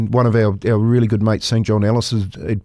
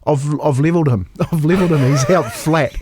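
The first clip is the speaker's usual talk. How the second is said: excited; 5 semitones higher than usual. Real, not acted. Telling the big tackle.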